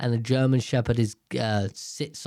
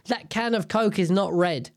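higher-pitched mock adult declaring it; assertive adult; 5 semitones higher than usual. Adult contradicting a child over a Coke can, mock-assertive. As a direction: lay down the law as a know-it-all grown-up. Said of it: "being an adult is like a get out of jail free card".

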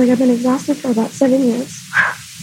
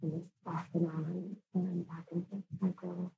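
low, raspy voice after tears; hoarse and worn out from crying; 4 semitones lower, 3 dB quieter than usual. Real, not acted. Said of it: "my voice is a little raspy right now".

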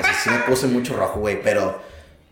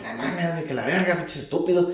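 inner angry mutter; 7 dB quieter than usual. Retold or imitated. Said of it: "yo estaba enojado porque dije".

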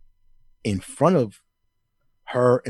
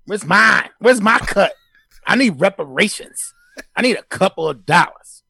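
higher, louder sports-pundit rant; Stephen A Smith impression; 4 semitones higher, 3 dB louder than usual. Pundit demanding reparations on air, loud high ranting impression. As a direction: hammer every demand like a TV hot take. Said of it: "that Stephen A Smith just dropped into the room".

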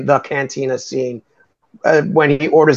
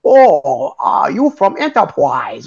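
mock pseudo-Oriental accent; 2 semitones higher, much slower than usual. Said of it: "in a pseudo-Oriental accent".

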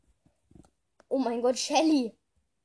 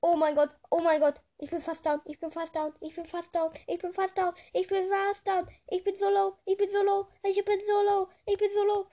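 panicking more with every repeat; rising panic; 6 semitones higher than usual. Real, not acted. Low health, enemy closing in.

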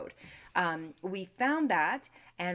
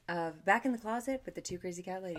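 phone voice. Acted. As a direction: put on your polite phone voice. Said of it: "I would turn on my phone voice".

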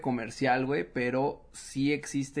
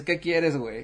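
a blunt, impatient "¿Qué quieres, güey?"; curt mock demand. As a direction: snap it out like a fed-up friend. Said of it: "nada más me dices".

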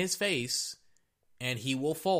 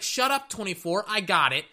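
high, brash talk-back; high cocky shut up; cocky quarterback voice; 6 semitones higher, 6 dB louder than usual. Retold or imitated. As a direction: play the QB snapping back at the fan. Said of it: "And Lamar's like".

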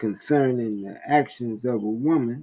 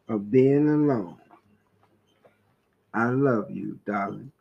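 tender letter. Retold or imitated. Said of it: "That's what the letter said".

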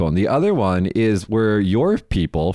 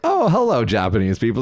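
Disney-style British greeting. Retold or imitated. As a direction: play a cheery Disney Englishman greeting the locals. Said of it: "They're like".

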